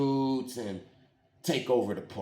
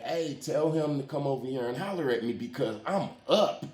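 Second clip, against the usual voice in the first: boastful bragging. Retold or imitated. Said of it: "So I'm like".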